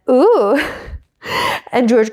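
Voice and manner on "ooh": imitated impressed "ooh"; mock "ooh" swooping up; engineer's "ooh". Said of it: "the engineer went".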